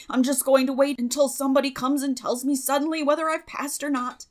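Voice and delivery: a boy dodging bad news; Moody's voice. Moody Spurgeon continues.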